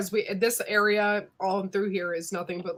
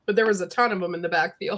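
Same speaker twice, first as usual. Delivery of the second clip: mouth full; faster than usual. Real, not acted. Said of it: "I'm sorry I'm eating".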